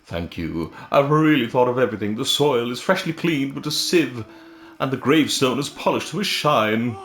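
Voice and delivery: a fussy ghost fretting. Acted. Ghost character dialogue.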